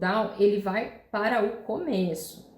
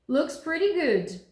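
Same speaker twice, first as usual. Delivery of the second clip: raised, slow "Looks pretty good"; questioning lift; 7 semitones higher, slower than usual. Shown as a demonstration. Teacher lifts the phrase to sound like a question. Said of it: "como é que a gente sabe que isso é uma pergunta".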